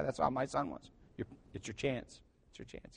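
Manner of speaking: usual speaking voice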